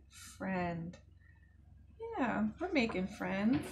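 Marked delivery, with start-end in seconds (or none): 0.1-1.0 soft word. Shown as a demonstration. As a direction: say "Friend." softly and slowly. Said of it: "Can we do it together?".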